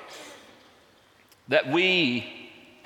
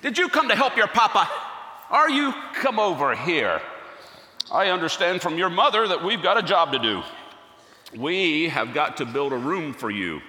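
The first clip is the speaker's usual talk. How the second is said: higher and louder, bright sing-song welcome; doting father to a toddler; 5 semitones higher, 3 dB louder than usual. Acted. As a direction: beam at a small child and coax him in. Greeting little Jesus in workshop.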